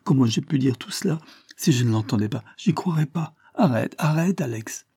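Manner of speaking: supplication aiguë, un peu plus forte; s'écrie. Acted. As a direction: une fille qui n'en peut plus de honte. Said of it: "elle n'y tient plus et s'écrie". (Mimi supplie Alex, voix montée)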